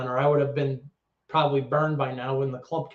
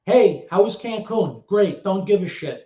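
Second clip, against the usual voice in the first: lightly mimicked brisk promoter; a hint of the promoter's patter; imitating promoter; 3 semitones higher, 4 dB louder than usual. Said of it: "that's how he used to talk to me".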